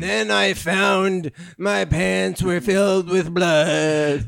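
put-on slow, dramatic girl reading; hammed-up girl voice. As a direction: ham up the diary voice. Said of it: "the speaker reads".

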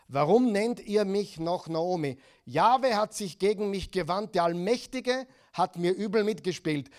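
Naomi's anguished outcry to the townswomen, loud and bitter; bitter loud lament. Acted. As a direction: call it out like a grieving woman accusing God. Naomi cries out her bitterness.

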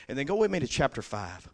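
usual speaking voice

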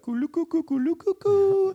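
very high, loud hooting call; sketch-comedy bird-like cooing; Bob and Doug McKenzie. Retold or imitated. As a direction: hoot out a silly Canadian comedy refrain. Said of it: "Bob and Doug McKenzie".

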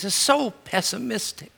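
high-pitched imitation of a dismayed objector; mock dismay. Mocking a preacher's stated objection.

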